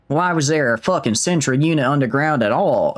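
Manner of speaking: American Southern twang; Southern accent. Acted. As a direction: do an Australian that has turned fully Southern. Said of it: "that's just Southern now".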